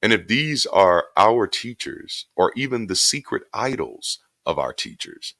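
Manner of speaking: measured book reading voice; reading aloud. Acted. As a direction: read the essay steadily and deliberately. Reads his book excerpt aloud.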